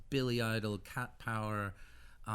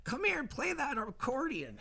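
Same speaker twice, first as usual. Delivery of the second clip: higher, louder demanding showbiz diva; bossy diva; 5 dB louder than usual. Retold or imitated. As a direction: play a famous singer taking charge of the band. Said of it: "she's like".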